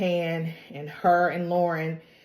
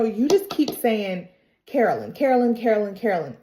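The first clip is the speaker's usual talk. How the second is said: mock indignant mother, louder and higher; fed-up complaint, lightly acted; exasperated retort; 4 semitones higher, 3 dB louder, faster than usual. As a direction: rattle off the repeated name in protest.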